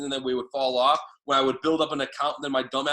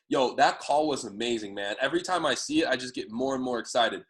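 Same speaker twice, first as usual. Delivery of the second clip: demo call line; 4 semitones lower than usual. Shown as a demonstration. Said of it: "even edify it".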